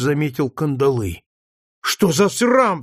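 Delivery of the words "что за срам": put-on slow, high, outraged boy's exclamation; a boy seeing the shackles cries out, high and slow; indignant outcry. A narrator's reading. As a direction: spit out the shame of it. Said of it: "вскричал он".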